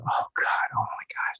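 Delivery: hushed, whispery mock dismay; retold sinking embarrassment, barely voiced; dismayed inner thought. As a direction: groan it under your breath to yourself. Dismayed private thought on being seen.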